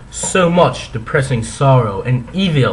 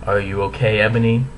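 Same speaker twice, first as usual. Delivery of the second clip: soft, lower gentle question; 4 semitones lower, 4 dB quieter, faster than usual. Acted. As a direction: ask softly and kindly. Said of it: "Draco asked me gently".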